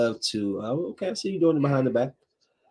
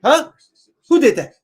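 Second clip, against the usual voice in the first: mock confused; 13 semitones higher, 9 dB louder than usual. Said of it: "you be like".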